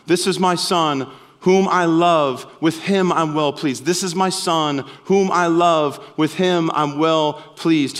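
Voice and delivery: slow and loving, leaning on "whom"; slow tender voice of the Father. Acted. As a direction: bless a beloved son slowly. Jesus hearing the Father's words.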